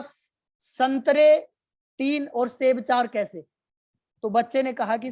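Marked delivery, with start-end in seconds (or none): 0.0-3.5 stammering, louder, very slow angry outburst; angry teacher. Acted. Teacher after slapping the student, angry and loud. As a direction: splutter it out after the slap. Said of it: "teacher को गुस्सा आया".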